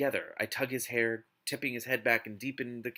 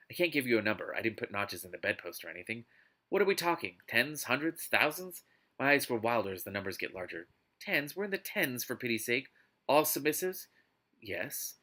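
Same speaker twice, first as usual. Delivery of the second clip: dramatic novel reading; expressive audiobook narration; story narration; 2 semitones lower than usual. Acted. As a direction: read it out like an overwrought romance audiobook. Reads a novel aloud.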